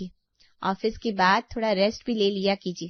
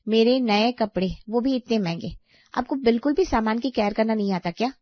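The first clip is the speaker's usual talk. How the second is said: louder, indignant complaint; angry reproach; 5 dB louder than usual. Acted. Sister-in-law upset over ruined new clothes, angry reproach. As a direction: rebuke her for carelessness.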